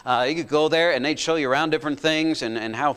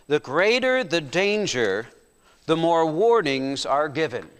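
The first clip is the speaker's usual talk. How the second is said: slow emphatic point; slower than usual. Acted. Preacher stating the principle.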